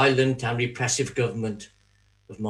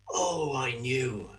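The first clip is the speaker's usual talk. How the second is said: much softer and slower, almost to himself; hushed realization; 8 dB quieter, slower than usual. Acted. Judas reliving the moment of betrayal, hushed and slow. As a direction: let the knowing sink in, slow and soft.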